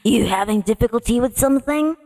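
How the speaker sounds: lightly voiced sly cat, quick; teasing leopard cat purr. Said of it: "let me just get my leopard cat voice".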